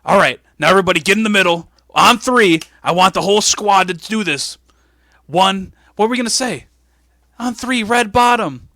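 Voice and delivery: loud coach's call, building to a shout; rally them, then yell the chant; team huddle rally. Acted. Boss gathers squad in the middle, loud rallying count.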